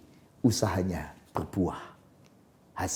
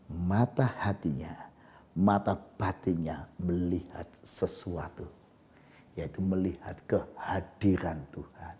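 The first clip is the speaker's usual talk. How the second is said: hushed awe; 4 semitones lower, 6 dB quieter, slower than usual. Acted. Awed inner vision, hushed.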